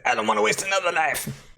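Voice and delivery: high, strained pleading; mock desperate. Hanging performer begs for help, high mock desperation. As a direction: act out a squeezed, high plea.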